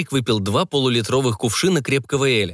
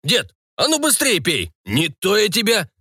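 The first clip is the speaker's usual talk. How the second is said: high, menacing pirate; rowdy pirate threat; threatening pirate; 7 semitones higher than usual. A narrator's reading. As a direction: threaten him to drink. Pirate threatens old man.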